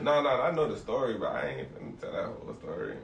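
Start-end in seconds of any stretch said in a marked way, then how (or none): 0.0-1.1 laughing through denial; giggling while talking. Real, not acted.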